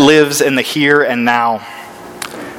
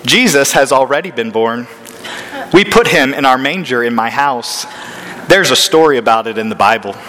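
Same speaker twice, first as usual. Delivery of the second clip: know-it-all voice. Retold or imitated. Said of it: "his most high-handed, know-it-all playground voice".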